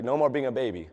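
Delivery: lightly voiced coach, low-key and firm; a hint of a stern coach, said softly; coach's stern words. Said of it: "He's like".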